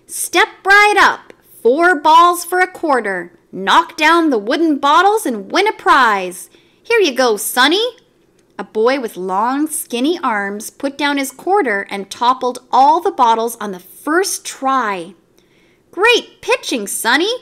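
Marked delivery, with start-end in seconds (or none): 0.1-8.0 higher, louder, bellowing barker call; loud carnival barker hawking his game; carnival barker shout. A narrator's reading. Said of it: "Mario stood out in front shouting". 15.9-17.3 barker cry. A narrator's reading. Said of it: "cried Mario".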